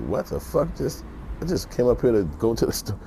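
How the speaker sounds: high-pitched, incredulous put-on voice; mock bewildered protest. Shopper to police riding down on him, high bewildered protest. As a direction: protest in high, baffled disbelief.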